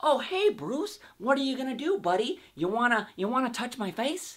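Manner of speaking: put-on comic-book villain voice. Retelling how the Joker talked to Bruce in his house: imitating the Joker's voice. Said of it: "I was like".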